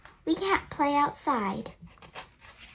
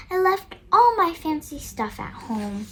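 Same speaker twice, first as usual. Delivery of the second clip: upset teacher; 5 semitones higher, 4 dB louder than usual. Acted. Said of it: "she cries".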